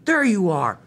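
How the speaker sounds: loud, high cry of discovery; storybook baddie crowing; gloating villain. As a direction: pounce triumphantly on hidden prey. Villain Diesel finds them.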